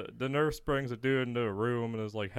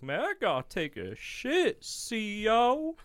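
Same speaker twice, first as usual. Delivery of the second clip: higher-pitched mock inmate plea; imitated inmate; 11 semitones higher, slower than usual. Inmate asking guard for toilet, imitated plea. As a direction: imitate an inmate calling on the officer. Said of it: "this guy's like".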